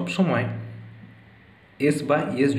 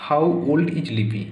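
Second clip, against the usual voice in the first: slow model reading; much slower than usual. Shown as a demonstration. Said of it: "মানে লিপির বয়স কত".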